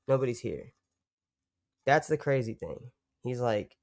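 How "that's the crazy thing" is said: usual speaking voice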